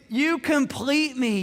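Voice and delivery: "You complete me" drawn out slowly and lovingly; hammed-up tender movie quote; tender movie line. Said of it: "the second most famous line out of the movie".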